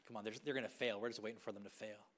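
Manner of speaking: low, quiet scornful murmur from the shadows; mock whisper. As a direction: voices in the dark hoping you'll fail.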